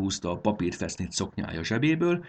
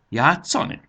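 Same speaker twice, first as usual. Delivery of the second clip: high, louder, rising echo; astonished question; 9 semitones higher, 7 dB louder than usual. A narrator's reading. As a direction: ask it in sheer surprise. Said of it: "csodálkozott Fanni". (csodálkozó, magas visszakérdezés)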